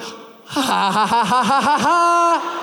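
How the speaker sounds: put-on rising, delighted baby laughter; giggling toddler. Son laughing once his hand hits the sprinkler, delighted giggles. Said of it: "he went".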